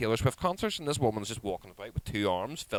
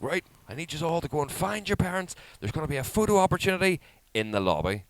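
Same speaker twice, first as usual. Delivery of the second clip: higher, projected public announcement; event announcer; 8 semitones higher than usual. Retold or imitated. Man sending kids to find parents, announcing. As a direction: imitate a steward addressing all the kids. Imitating staff man's announcement.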